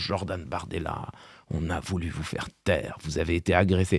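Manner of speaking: put-on solemn, affected tone. Act out how he speaks to Jordan Bardella on CNews, in a mock-grave, affected voice. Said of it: "d'une voix grave et affectée".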